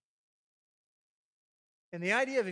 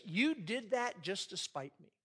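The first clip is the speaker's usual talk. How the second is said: slow accusation; slower than usual. Shown as a demonstration. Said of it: "it comes off like this".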